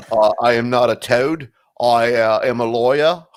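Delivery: put-on a light generic European accent, a touch of formality; hint of a vague European lawyer. Comedian playing a European lawyer, lightly accented. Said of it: "My generic European accent".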